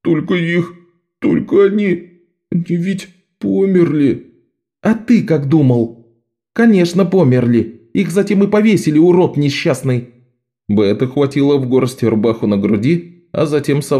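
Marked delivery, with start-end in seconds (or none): 0.0-4.3 put-on higher, tearful boy's voice; higher tearful child; upset little boy. A narrator's reading. Bezzub crying over the hanged. 4.8-10.1 put-on higher, sharp exasperated girl; higher, fast impatient scolding; Bet snapping. A narrator's reading. Bet snaps at Bezzub.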